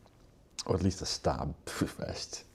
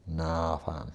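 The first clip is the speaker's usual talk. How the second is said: put-on south London accent; 5 dB louder than usual. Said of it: "You'd be like".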